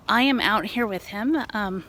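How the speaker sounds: winded from walking; out of breath. Real, not acted. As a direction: speak a little breathless. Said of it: "and I'm out of breath".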